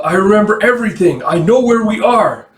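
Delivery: high, loud heroic announcement; emphatic declaration. Acted. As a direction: declare it like a comic-book hero. Hero's dramatic declaration.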